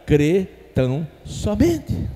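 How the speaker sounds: slow, spaced phrase with a rising end; deliberate, separated words; word-by-word prompting. Shown as a demonstration. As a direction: lead the congregation to repeat each word. Models words for congregation to repeat.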